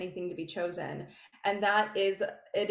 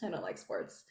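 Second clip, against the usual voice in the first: softer, offhand dismissal; bit of a bad girl; 6 dB quieter than usual. Bad girl teasing a sports fan, casually dismissive. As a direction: shrug it off, unimpressed. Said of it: "be a bit of a bad girl".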